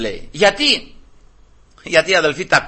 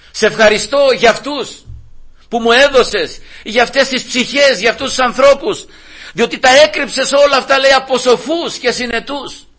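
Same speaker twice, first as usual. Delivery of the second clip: raised, insistent preaching voice; fervent preaching; 6 semitones higher than usual. Acted. Preacher quoting Christ's thanks to the Father, fervent preaching. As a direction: preach it with mounting fervour.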